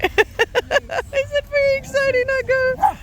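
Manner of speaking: very high, slow, sing-song pet voice. Real, not acted. Talking to excited dog.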